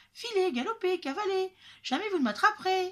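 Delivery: very high, shrill, laughing, taunting cry. Narrator voices the runaway Gingerbread Man calling back to his chasers: laughing shout. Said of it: "leur cria en riant le petit bonhomme de pain d'épices. / leur cria en riant le petit bonhomme de pain d'épices".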